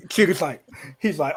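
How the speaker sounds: ordinary talk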